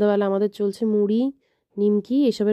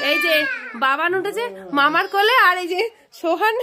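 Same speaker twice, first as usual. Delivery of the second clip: much higher sing-song voice for the babies; 10 semitones higher than usual. Real, not acted. Talking to the babies. (আদুরে উঁচু সুরে বাচ্চাকে ডাকা)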